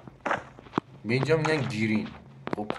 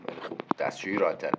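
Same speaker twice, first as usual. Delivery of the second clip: whispered joking aside; 5 semitones lower, faster than usual. Real, not acted. Joking aside about the WC name.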